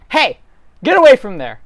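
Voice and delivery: high sharp yell; shouted warning. Acted. Farmhand yelling across the field at someone. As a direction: call out to chase them away.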